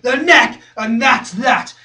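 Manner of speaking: loud, then settling; punchy, decisive close; firm conclusion. Acted. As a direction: state it hard and be done. First take of conclusion.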